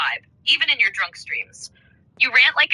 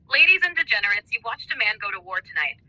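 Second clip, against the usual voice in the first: wrestling promo. Acted. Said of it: "wrestling style".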